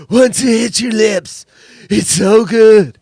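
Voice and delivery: drawn-out, forceful movie-quote voice; mimicking the co-host. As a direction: belt out the quote slowly, like your co-host. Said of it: "Do I have to say it like you?".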